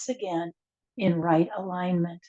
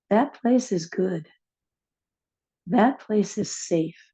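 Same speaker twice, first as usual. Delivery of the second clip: inspirational reading. Acted. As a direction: read it like a gentle affirmation. Reads an inspirational passage.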